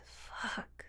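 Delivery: ordinary delivery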